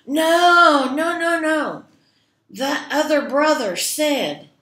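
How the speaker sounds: high, loud protesting troll voice. Acted. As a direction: insist like a greedy troll. Troll argues with goat.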